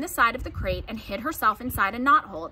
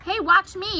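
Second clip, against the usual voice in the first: put-on high, loud boyish show-off; excited yell; 9 semitones higher, 5 dB louder than usual. A narrator's reading. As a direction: call for attention, pitched right up. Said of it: "yelled Avery".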